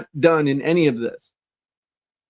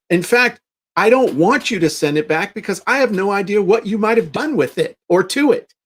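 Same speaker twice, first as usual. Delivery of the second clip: higher, breezy teasing politeness; mock cheery snub; 4 semitones higher than usual. Telling the customer not to send it back, a mock cheery snub. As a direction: rub it in sweetly.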